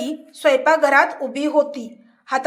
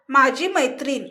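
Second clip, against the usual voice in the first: careless; 4 dB quieter than usual. Acted. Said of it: "Raghav बेफिकीरपणे म्हणाला".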